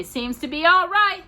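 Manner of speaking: a calm, easy remark; Pa's check. A narrator's reading.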